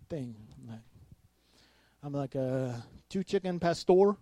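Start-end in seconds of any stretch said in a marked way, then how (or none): 3.1-4.2 terrible attempt at a Spanish accent. Customer ordering at taco place, attempted Spanish accent. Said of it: "try to say it with, like, an accent".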